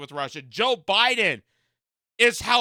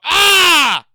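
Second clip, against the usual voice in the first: hammed-up panicked shout, higher and louder; mock panic; 7 semitones higher, 9 dB louder, slower than usual. Mocking elderly cable viewers, a hammed-up panicked shout. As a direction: scream like the Reds are at the door.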